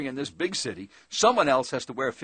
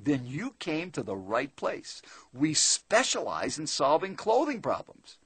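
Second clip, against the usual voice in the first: smiling clerk; 3 dB quieter, slower than usual. Retold or imitated. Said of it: "He responds smiling".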